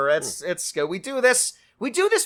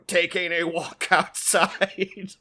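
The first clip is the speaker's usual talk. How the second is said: robot voice; 2 semitones higher than usual. Acted. Robot bit continues.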